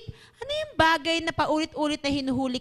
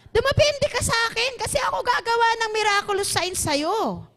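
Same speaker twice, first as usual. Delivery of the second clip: high-pitched, insistent exhortation; urgent preaching; 7 semitones higher than usual. Acted. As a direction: press the congregation in a raised voice. (mataas at mapilit na pangangaral)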